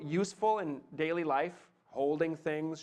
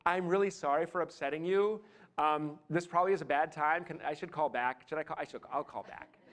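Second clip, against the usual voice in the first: apologetic subtext. Acted. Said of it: "Because the subtext is".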